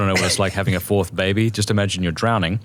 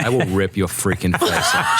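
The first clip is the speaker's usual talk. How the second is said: laughing mock threat. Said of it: "and she's like".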